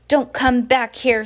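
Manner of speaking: loud yell after them. A narrator's reading. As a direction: shout after the fleeing men. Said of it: "Sir yelled after them".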